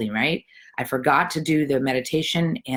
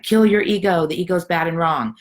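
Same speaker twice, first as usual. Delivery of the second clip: lightly mocked zealot, starting louder and higher; a hint of a louder, higher naysayer; imitating ego-bashers; 4 semitones higher, 4 dB louder than usual. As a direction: mimic someone preaching against the ego. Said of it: "one of those people that's like".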